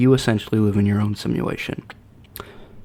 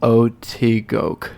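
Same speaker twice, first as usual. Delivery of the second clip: slow backwards Latin chant; backwards speech; much slower than usual. Shown as a demonstration. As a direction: say the phrase reversed, slowly. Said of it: "I have to say it backwards".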